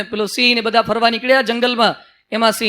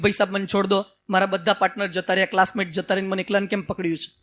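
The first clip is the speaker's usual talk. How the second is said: softer, lower, pleading small voice; frightened cub; 4 semitones lower, 6 dB quieter than usual. Acted. Cub caught by the lion begs, softer and scared. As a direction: beg the lion to let go, a little scared. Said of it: "તે પેલું ગભરાઈ ગયું".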